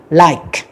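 like said with a clear final K and no E sound; final consonant only. Shown as a demonstration. Teacher modelling like for students, silent final E. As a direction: end like on a crisp K, silent E. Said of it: "chúng ta đọc cái âm cuối thôi".

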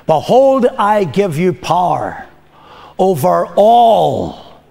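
slow, deliberate, each word weighed; slow it right down so it sinks in; slowly. Shown as a demonstration. Preacher repeats the verse to the congregation, slowly. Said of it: "I'm gonna say it slowly".

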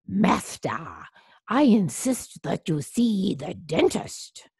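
lightly voiced insistent butler; a touch of formal urging. A narrator's reading. Butler urging his master to the dentist, lightly insistent.

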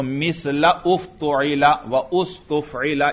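"मिसला उफ़्तुइला व उस्तुफ़इला" with each initial "u" sounded separately; both hamzas pronounced. Shown as a demonstration. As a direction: keep "la" and "uf", "wa" and "us" apart. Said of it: "ये दोनों हमजा पढ़ेंगे".

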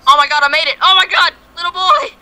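high, loud victory cry; triumphant shout. Real, not acted. Finally beats the level.

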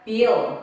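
bill with the tongue behind the front teeth for a clear L; English bill. Shown as a demonstration. Teacher repeats the correct English bill for students. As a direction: finish bill on a held L. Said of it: "한 번 더 해볼까요".

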